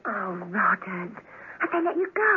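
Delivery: a Cockney charlady's voice with a catch of a sob; Cockney charwoman begging her lover. Acted. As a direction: plead in a Cockney accent, close to crying. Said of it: "In her Cockney voice".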